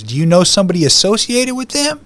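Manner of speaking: dad's surprised question, pitched high. Retold or imitated. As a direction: ask it up high and hopeful. Dad asks him in courtroom.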